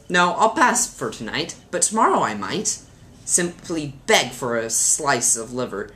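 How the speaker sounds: put-on lilting children's poem recital; mildly theatrical verse reading. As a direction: read a funny poem with lively emphasis. Reads a poem aloud.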